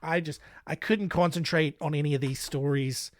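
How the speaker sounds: hammed-up fake Australian accent, slipping now and then; put-on Aussie twang for a true-crime recap; bad Australian accent. Podcast host recapping a killer's fate in bad Australian accent. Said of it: "it's a bad Australian accent".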